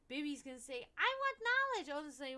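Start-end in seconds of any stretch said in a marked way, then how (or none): 1.0-2.0 very high, loud little voice; baby voice. Pretend. Baby asking Odin for knowledge, very high eager voice.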